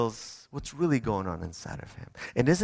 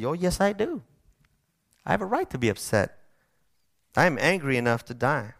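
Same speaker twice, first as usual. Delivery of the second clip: defiant Jonah. Retold or imitated. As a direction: snap back at God like a pouting prophet. Jonah answers God defiantly.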